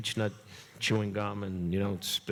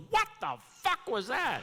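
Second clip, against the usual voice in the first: stunned. Retold or imitated. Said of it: "And everyone goes".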